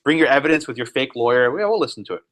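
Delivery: mildly mocking, dismissive promise; sarcastic. Board offering Carrie Buck a fake hearing, sarcastic. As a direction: feign willingness to listen with light sarcasm. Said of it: "I'm being sarcastic on purpose".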